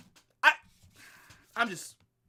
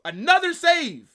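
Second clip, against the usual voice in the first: drawn-out, loud exasperated call; exasperated shout; 8 semitones higher, 7 dB louder than usual. Real, not acted. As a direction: groan it out as the keeper saves again. Goalkeeper keeps saving, exasperated.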